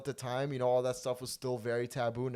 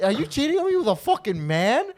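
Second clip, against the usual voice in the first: high-pitched yelled accusation; so shocked; 12 semitones higher, 10 dB louder than usual. Retold or imitated. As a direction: imitate a shocked, shouting girlfriend. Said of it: "she was so shocked".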